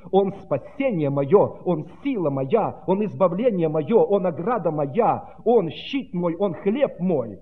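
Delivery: slow, drawn-out proclamation; exclaimed declaration. Acted. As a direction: declare each line with mounting force. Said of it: "И когда он так восклицал".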